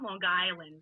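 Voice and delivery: put-on Long Island accent on the place name; deliberate Long Island pronunciation. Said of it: "the way that a Long Islander says it".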